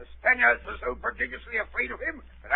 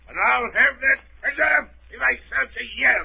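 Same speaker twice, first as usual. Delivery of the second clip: excited vow. Acted. Squire vows treasure hunt excitedly.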